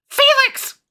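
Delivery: high, loud alarmed call; shouting a name. Acted. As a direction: yell his name across the room. Calling out to character in shock.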